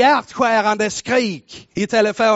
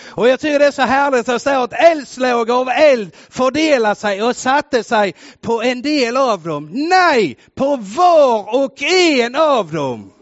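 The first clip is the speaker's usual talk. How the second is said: louder, slowing and climbing to a shouted "Allesammans"; preaching at full force; 3 semitones higher, 5 dB louder than usual. Acted. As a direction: roar the last word to the whole room. Pentecost climax.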